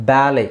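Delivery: "ಬ್ಯಾಲೆ" ending on an open "lay", no T; silent T. Shown as a demonstration. Teacher modelling ballet for students, silent T. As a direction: ballet as "ba-lay", long first vowel. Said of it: "ಟಿನ silent ಮಾಡಬೇಕು".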